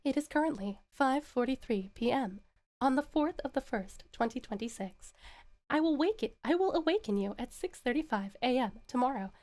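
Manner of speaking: lightly voiced calm alarm clock announcement; a hint of a polite robot alarm. Shown as a demonstration. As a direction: read it like a gentle clock. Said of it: "I could talk like that".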